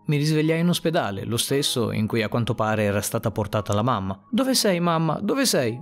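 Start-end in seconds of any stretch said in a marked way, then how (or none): 4.3-5.2 shouting for mom. Acted. Boy in the hospital shouting for his mother, desperate. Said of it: "urlai più volte". 5.2-5.8 shouting again. Acted. Boy shouting across the hospital floor, desperate. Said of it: "urlai più volte".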